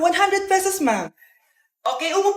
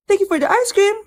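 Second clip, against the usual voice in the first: TikTok NPC live; 2 semitones higher than usual. Pretend. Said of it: "yung A I na trend sa TikTok".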